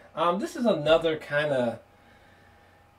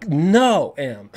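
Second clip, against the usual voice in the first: mock protest; 6 dB louder than usual. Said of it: "I was like".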